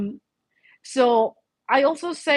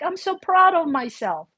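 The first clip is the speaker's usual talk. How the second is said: proud declaration; 6 semitones higher than usual. Retold or imitated. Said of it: "I go like".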